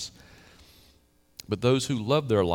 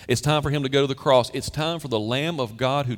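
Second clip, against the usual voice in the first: rising proclamation; 3 semitones higher, 4 dB louder than usual. Real, not acted. Preacher builds to the cross.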